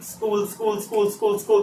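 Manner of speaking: स्कूल with a breathy hiss before कूल, quiet; pronunciation demo. Shown as a demonstration. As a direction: let air out first then a short कूल. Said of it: "पहले sir हवा निकालना है". (स्कूल में पहले हवा निकालो फिर छोटा कूल)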